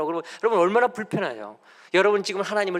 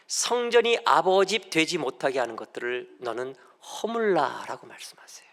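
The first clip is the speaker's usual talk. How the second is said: normal talking voice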